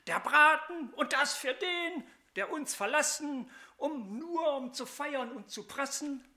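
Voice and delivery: mild anger. Acted. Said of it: "Wut kochte hoch dem Sohn".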